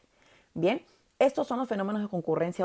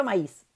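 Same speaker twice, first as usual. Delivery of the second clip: maíz with the í stronger than the a; stress on the I. Shown as a demonstration. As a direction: say maíz in two syllables, leaning on íz. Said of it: "La I suena más que la A".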